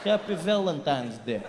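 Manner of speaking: put-on slow Russian accent making sweet words threatening; menacing Russian accent. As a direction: say nice things like a threat. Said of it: "it still sounds menacing and dangerous".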